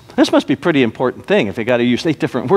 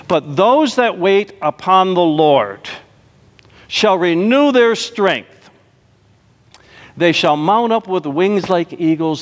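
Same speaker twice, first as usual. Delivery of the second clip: slow, lifted reading of scripture; slower than usual. Acted. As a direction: proclaim it slowly. Quoting scripture passage.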